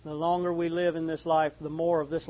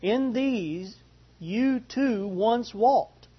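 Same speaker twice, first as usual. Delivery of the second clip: deliberate scripture reading, broken by long pauses; unhurried, measured Bible reading; slow reading. Real, not acted. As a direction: let each item sink in before the next. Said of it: "read this kind of slow".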